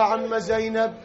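sorrowful condolence. Acted. Nephew gives condolences to aunt.

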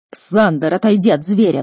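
loud, urgent warning; alarmed, forceful command; father's roar. Acted. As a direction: shout a sharp order to get away. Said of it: "взревел отец".

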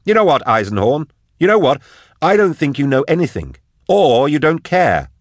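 high, loud, accusing tirade; furious Drusha. Acted. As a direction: berate him at full pitch. Voices Drusha berating Eisenhorn.

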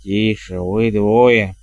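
low, stern bark; barked order. A narrator's reading. Matriarch silences the two chattering witches, barking. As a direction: snap at them in a low voice. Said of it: "рявкнула матушка".

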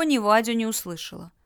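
usual speaking voice

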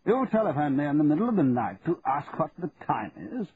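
suddenly wide awake and sharp; alert. A narrator's reading. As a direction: snap awake, incredulous. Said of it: "his voice now sounding more alert".

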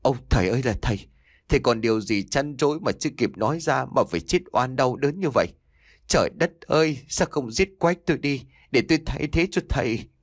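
sobbing, pleading lament; wailing lament. Acted. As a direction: wail for the dead father, voice rising in despair. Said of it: "vừa mếu máo vừa kêu than".

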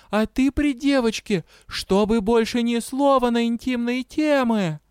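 high-pitched, stern little kitten; kitten scolding. A narrator's reading. Kitten forbidding intimate topics, scolding. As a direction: lay down the law in a kitten voice. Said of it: "ответила кошечка".

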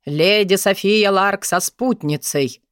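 slow, formal footman announcement; grand entrance announcement. Acted. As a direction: announce the guests grandly and slowly. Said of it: "громогласно объявил всё тот же лакей".

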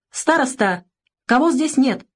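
put-on high shrill squeal at the boy; squealing the question up high; shrieking. A narrator's reading. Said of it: "взвизгнула она". (визгливо, на высокой ноте)

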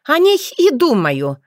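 usual speaking voice

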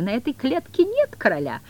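high, hammed-up horror; mock horror. The cat faking dismay over the vanished king, mock horror. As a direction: overplay the shock. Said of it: "изображая ужас на своей морде".

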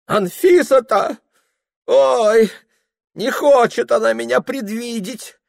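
put-on high, loud drunken cry of a lovesick clerk; Ilya exclaiming. A narrator's reading. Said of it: "вскричал Илья". (высокий громкий пьяный вскрик влюблённого)

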